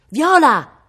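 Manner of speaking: high, loud call falling at the end; shouted name. A narrator's reading. Cosimo calls Viola from the tree, shouting. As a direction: call out to her across the garden. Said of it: "gridò".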